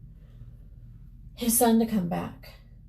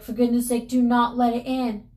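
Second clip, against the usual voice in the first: raised, emphatic warning; urgent begging; 4 semitones higher, 5 dB louder than usual. Acted. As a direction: plead firmly, a little higher and louder. Husband begs wife not to open.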